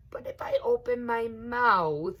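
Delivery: whispered, conspiratorial; alligator's sneaky whisper; sly whisper. A narrator's reading. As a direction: lure them in with a hush. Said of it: "he said".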